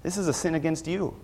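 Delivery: hushed prayer. Retold or imitated. A believer handing his wrong to God, hushed and low. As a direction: hand it over to God under your breath. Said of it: "You say".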